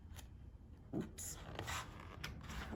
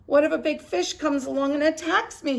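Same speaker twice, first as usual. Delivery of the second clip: a touch of fright; 9 semitones higher, 5 dB louder than usual. Acted. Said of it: "it was frightening out there".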